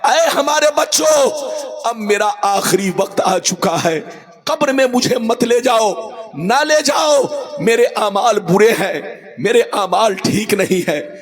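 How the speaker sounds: preacher acting a terrified soul begging; half-wailed pleading of a sinner's soul; a soul dragged to the grave, crying out; dying soul pleading. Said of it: "چیخ چیخ کر کہتی ہے".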